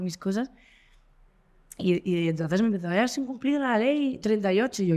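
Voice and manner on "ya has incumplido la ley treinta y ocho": mock cop reprimand. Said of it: "el tío me gritaba".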